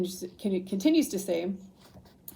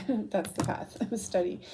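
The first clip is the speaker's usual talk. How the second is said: laughing. Real, not acted. Laughs at the card's answer.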